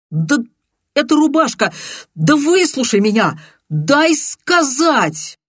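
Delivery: high, loud, desperate cutting in; angry outburst. Acted. Viktor trying to interrupt his friend, a high angry cry. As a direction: force your way into the talk, furious. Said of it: "разозлился на Андрея".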